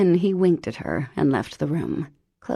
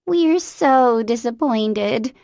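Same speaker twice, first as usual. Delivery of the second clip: mock disappointed; 6 semitones higher, 6 dB louder, slower than usual. A narrator's reading. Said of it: "said the Holy Rollers".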